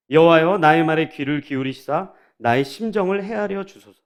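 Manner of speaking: formal psalm reading with falling line endings; scripture reading. A narrator's reading. Preacher reads Psalm five to the congregation, formal reading. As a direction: read it out as a measured, solemn prayer.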